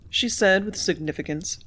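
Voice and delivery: ordinary delivery, nothing marked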